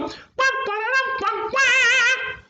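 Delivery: high, slow sung wah wah of a horn; trumpet imitation. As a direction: blow it like a brass horn.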